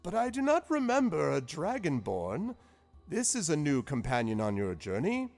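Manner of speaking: high, interested; curious wizard. Acted. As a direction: lean in with delight. Zephyros noticing Dragonborn.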